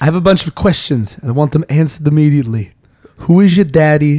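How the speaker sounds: lightly voiced Arnold demanding answers; Arnold Schwarzenegger impression. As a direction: grill him like Kindergarten Cop Arnold. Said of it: "want me to do Arnold's voice some more".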